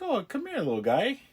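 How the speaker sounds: a man sweet-talking a droid with a playful mock coo; mock sweet coaxing. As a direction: coax the little droid like a pet, half joking. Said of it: "Like, he's like".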